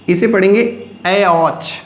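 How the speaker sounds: ऐ औच said slowly, ऐ then औच; slow demo. Shown as a demonstration. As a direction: read ऐ औच syllable by syllable. (ऐ औच धीरे से पढ़ें)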